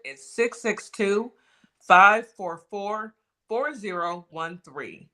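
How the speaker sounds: slow, clear phone number; slow number read. Shown as a demonstration. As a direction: read each digit slowly. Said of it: "let me read out the number one more time".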